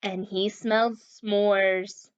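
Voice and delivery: slow, lightly voiced monster. The speaker voicing the monster, slow and lightly menacing. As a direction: drag the words like a hungry beast. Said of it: "said the monster".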